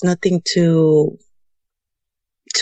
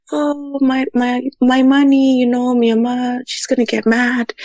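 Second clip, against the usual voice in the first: put-on high, teary little-girl wail; imitating a small girl crying to her grandma; crying child; 6 semitones higher than usual. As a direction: whimper it like a scared kid who lost her money. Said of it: "I start crying".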